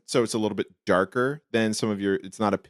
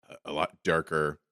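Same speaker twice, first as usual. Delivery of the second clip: deeper, lower voice; 3 semitones lower, 5 dB quieter than usual. Pretend. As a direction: drop the voice low. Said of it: "it lowered your voice too".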